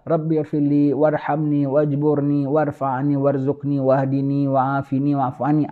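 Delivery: measured, devout recitation; slow Quranic recitation. Acted. Preacher reciting the opening prayer to students, slow and devout. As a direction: recite each phrase slowly and reverently.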